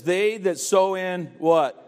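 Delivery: slow, drawn-out scripture read with pauses for the congregation; fill-in-the-blank reading. Real, not acted. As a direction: read it out and leave gaps for them to answer. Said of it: "Verse five says, help me fill in some blanks".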